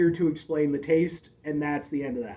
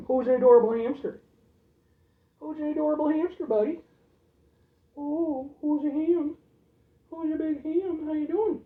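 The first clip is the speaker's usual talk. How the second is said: high sing-song coo to a hamster; 9 semitones higher than usual. Real, not acted. Owner cooing to his hamster in a high voice.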